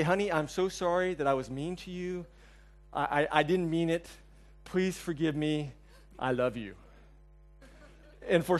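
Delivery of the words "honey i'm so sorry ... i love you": soft, pleading "Please forgive me"; tender apology. Retold or imitated. Husband showing the right apology to wife, soft and tender. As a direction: beg forgiveness gently and softly. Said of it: "You just have to say".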